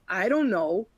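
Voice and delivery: a retold shrug of an answer, mildly cheeky; imitating a careless brush-off; cheeky attitude. Mock cheeky reply from the audit lead to the auditor. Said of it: "Very cheeky attitude".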